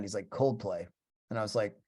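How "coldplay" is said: understated imitated British accent; name it with a light British accent. British musician naming his band, light British accent. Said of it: "he's got a British accent".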